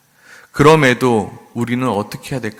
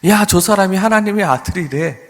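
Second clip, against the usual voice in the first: higher, sneering taunt; jeering crowd; 7 semitones higher, 5 dB louder than usual. Retold or imitated. Preacher voices crowd mocking Jesus on the cross, sneering. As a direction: toss the mockery up at the cross. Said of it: "조롱하였습니다".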